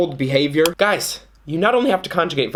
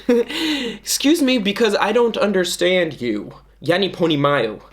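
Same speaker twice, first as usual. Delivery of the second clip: confused foreigner; 5 semitones higher than usual. Acted. Playing confused foreigner in skit.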